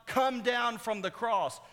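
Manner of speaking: high, loud, drawn-out taunt; mocking demand. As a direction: call it out slowly as a jeering command. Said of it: "this mocking statement".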